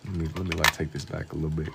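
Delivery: sleepy, drowsy low murmur; dozing off. Real, not acted. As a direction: talk like you're nodding off. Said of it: "I keep dozing off".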